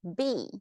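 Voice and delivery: "B" closed off like a statement; falling intonation. Shown as a demonstration. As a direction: let "B" fall steeply. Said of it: "goes down".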